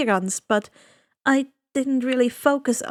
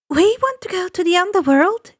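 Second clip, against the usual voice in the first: fast, higher, louder blurt; eager blurt; 8 semitones higher, 6 dB louder, faster than usual. Acted. Girl blurting to the ferryman, fast and eager. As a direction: rush it out boldly.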